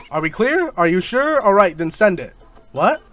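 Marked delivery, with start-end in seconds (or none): 0.1-0.7 shouting through laughter; laughing shout. Real, not acted.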